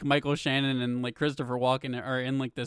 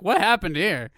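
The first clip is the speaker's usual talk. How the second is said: louder, lightly attempted Aussie accent; mock Australian accent; 3 semitones higher, 6 dB louder than usual. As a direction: put on a baffled Aussie voice. Acting baffled Australians finding carcass.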